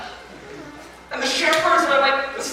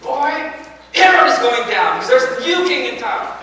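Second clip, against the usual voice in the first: excited reaction; 3 semitones higher, 4 dB louder than usual. Acted. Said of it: "What would your reaction be".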